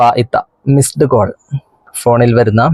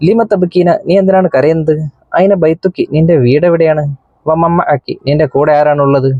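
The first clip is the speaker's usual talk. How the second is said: slightly higher, lightly voiced policeman; policeman's questions; 3 semitones higher than usual. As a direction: ask the crying girl gently like a policeman. Policeman questions crying girl. (കരയുന്ന പെൺകുട്ടിയോട് പോലീസുകാരൻ ചോദിക്കുന്നു, അല്പം ഉയർന്ന സ്വരം)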